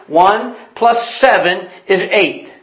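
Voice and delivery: slow, deliberate classroom recitation; teacher. Acted. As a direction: lay the sum out slowly, like a teacher. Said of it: "the teacher says".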